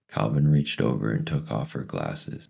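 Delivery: ordinary delivery, nothing marked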